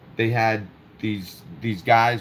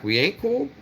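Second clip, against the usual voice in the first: incredulous; 10 semitones higher than usual. Retold or imitated. Incredulous retort in retold argument.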